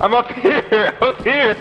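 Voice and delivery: called down from up high; calling down from tower. Real, not acted. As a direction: shout it down from the tower. Calling down from above.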